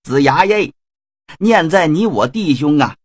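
sly villain getting pushy; pushy Shen Gongbao. Acted. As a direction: press him impatiently. Shen Gongbao presses, boasts.

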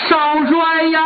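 a lightly acted crying cry of the young marshal's title; a servant calling out through mild mock tears; mock wailing call. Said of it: "一边跑一边哭".

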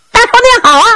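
squeaky, eager servant greeting; high Zhao Bi greeting. Acted. Zhao Bi bows and greets Uncle Qian, high and eager.

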